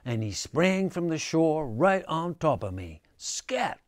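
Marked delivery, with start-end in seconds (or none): 3.2-3.8 sharp, much higher cry. A narrator's reading. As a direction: shoo them off with one quick cry. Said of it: "cried Possum".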